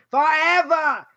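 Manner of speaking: forever with a light Boston accent, the r dropped. Shown as a demonstration. Teacher jokes to his class in a Boston accent. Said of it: "Or as we say in Boston".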